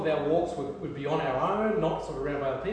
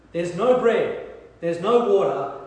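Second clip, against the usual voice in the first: louder, griping at Moses; complaining Israelites; 6 dB louder, slower than usual. Acted. Israelites in the desert protesting to Moses, loud griping. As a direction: voice the people whining and protesting.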